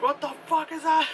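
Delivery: high-pitched mock astonishment; shocked disbelief. Imitating the heroine first seeing the predator, shocked. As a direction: squeal it as an imitated stunned reaction. Acting her reaction to the creature.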